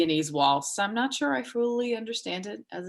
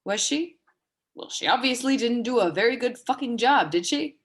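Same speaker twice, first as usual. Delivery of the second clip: scornful mock question, pitched up; sarcastic; 4 semitones higher than usual. Dying woman mocking a forum tribute, sarcastic. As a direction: sneer at the forum post. Sarcastic retort to dedication quote.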